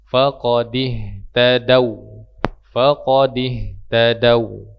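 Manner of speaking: Faqadih tadau with short unstretched vowels, slow. Shown as a demonstration. Teacher reciting to students, short vowels. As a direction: read Faqadih tadau slowly without lengthening. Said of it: "tidak dipanjang".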